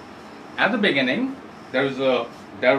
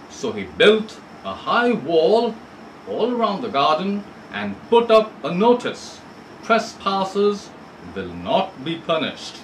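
story reading. Shown as a demonstration. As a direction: read the story clearly to students. Continues reading story text.

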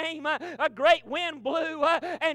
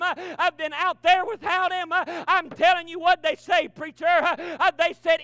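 loud, rhythmic whooping cadence with a gasped uh; preaching at full force; 3 dB louder than usual. Acted. Preacher to congregation, rousing loud sermon. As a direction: drive the congregation up.

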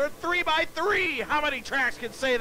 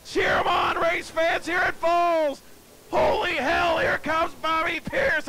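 excited call; 4 semitones higher than usual. Real, not acted. Announcer calls finish to crowd.

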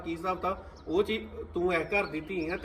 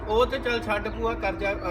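drawn-out, higher dismissive brush-off; 5 semitones higher, 3 dB louder than usual. Acted. Niece brushing off her aunt, slow and dismissive. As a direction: wave her aunt's point away, slowly.

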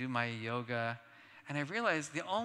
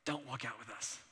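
softer, flat "Don't walk out with us."; cold low warning; 3 semitones lower, 9 dB quieter than usual. Retold or imitated. Brother telling Mark after the talk, softer and cold. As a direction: mutter "Don't walk out with us." under the breath. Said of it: "my brother looks at me and he goes".

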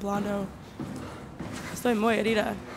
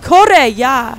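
loud panicked shout; 2 semitones higher, 16 dB louder than usual. Real, not acted. Player shrieking at herself to run from the monster. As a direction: scream at yourself to run.

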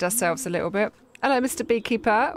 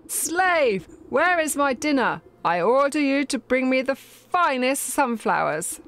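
shrill queen bee. Acted. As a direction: order him about like a spoiled queen. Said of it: "A shrill voice pierces the meadow".

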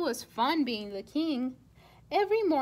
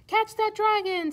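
commanding king; 6 semitones higher, 4 dB louder than usual. Acted.

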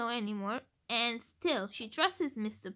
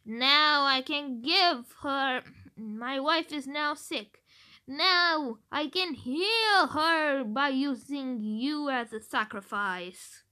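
pleading villain; 5 dB louder than usual. Retold or imitated. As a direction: sob out the reason for the sacrifice. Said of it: "Or maybe".

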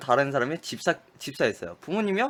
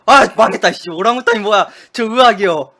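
higher, louder flustered outburst; flustered panic; 5 semitones higher, 13 dB louder than usual. Real, not acted. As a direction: scramble in real panic after the slip. Panics after wrong answer.

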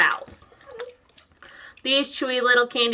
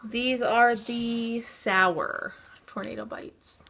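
whispering; much slower than usual. Acted. Dramatic product reveal.

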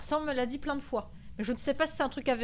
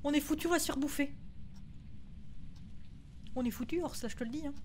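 hushed frightened whisper, much softer; whispering while hiding; 12 dB quieter than usual. Real, not acted. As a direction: whisper so the ghost can't hear. Hiding from ghost, quiet.

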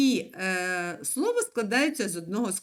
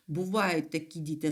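usual speaking voice

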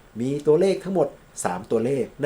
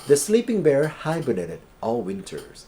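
very slow, higher and louder example sentence; slow model reading; 5 semitones higher, 5 dB louder, much slower than usual. Shown as a demonstration. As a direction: read it out word by word for learners. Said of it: "teacher reads example sentence". (อ่านประโยคตัวอย่างช้าๆ เสียงสูงและดัง)

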